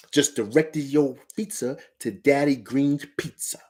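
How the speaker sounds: slow, lightly put-on movie catchphrase voice; movie-line impression. Fan quoting a favorite movie to listeners, slow playful put-on voice. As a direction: quote the film line slowly, playing it up a little. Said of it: "If anybody knows the movie".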